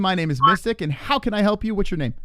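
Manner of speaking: a cheesy late-night psychic taking calls; mystic hotline host. Acted.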